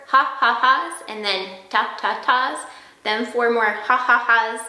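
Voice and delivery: slow, measured count-out of the syllables; drawn-out syllables. Shown as a demonstration. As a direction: say each ha, ta and da slowly and evenly. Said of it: "I'm gonna do four".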